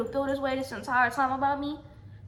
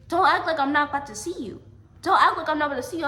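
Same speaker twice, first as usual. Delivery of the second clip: retold heated challenge, raised voice; confrontational warning; 3 semitones higher, 6 dB louder, faster than usual. Girl warning ex-friend she'll see her, confrontational. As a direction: push it out louder and higher as a threat.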